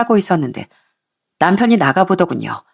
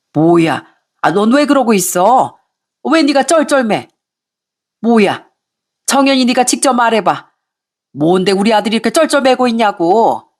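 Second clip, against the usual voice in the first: lightly voiced nagging mother-in-law, higher in bursts; a hint of an indignant mother-in-law; scolding mother-in-law; 4 semitones higher than usual. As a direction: lecture them like an angry in-law. Mother-in-law demands answers.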